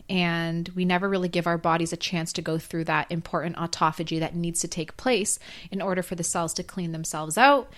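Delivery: hoarse, voice nearly gone; talking through a lost voice. Real, not acted. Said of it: "Sorry, I have lost my voice".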